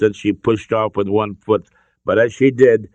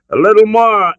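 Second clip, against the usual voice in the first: gasped; 12 semitones higher, 8 dB louder than usual. A narrator's reading. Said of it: "Indy gasped".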